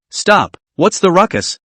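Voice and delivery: put-on high, slow and cold young woman; slow, cool command from above; cold, slightly high voice. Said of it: "this voice with a slightly high and cold temperament".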